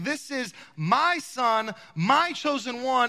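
slow, solemn voice from the cloud on "my son"; a hint of the voice of God, slow and weighty. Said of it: "the voice comes out in the cloud saying".

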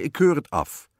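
loud, high royal verdict; disapproving king. A narrator's reading. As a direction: forbid it emphatically as a storybook king. King indignantly rejects the plan.

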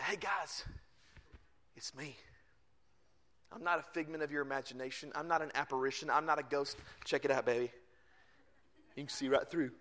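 low, soft, laid-back delivery; underplay it, hushed and offhand; casual Jesus. Retold or imitated. Jesus telling disciples he is no ghost, low and casual.

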